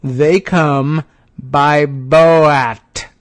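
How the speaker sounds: mildly exasperated, slowing on the last line; exasperated correction. Retold or imitated. Host voicing Chait's lightly mocking correction to Trump. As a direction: spell it out like to someone slow. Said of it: "Chait says".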